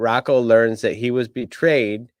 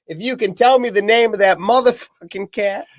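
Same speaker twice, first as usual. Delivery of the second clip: hammed-up movie threat with a raised voice; threatening gangster; 11 semitones higher than usual. Acting the gunman's threat.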